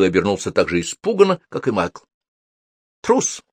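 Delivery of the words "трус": high, scornful one-word verdict; contemptuous. A narrator's reading. Sophie silently judges the jumpy wizard, contemptuous. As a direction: toss it out with disdain. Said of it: "презрительно подумала Софи".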